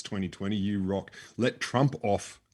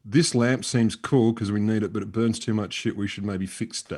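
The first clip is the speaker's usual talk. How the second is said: blunt paraphrase; 3 dB louder, slower than usual. Pretend. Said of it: "I'm gonna do the English translation again".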